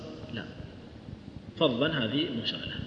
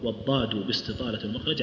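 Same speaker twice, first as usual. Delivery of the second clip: والضاد read as subject, rising and pausing after ومخرج; 3 semitones lower, 5 dB quieter than usual. Shown as a demonstration. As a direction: read والضاد باستطالة ومخرج as a topic with a rise. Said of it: "على الابتداء".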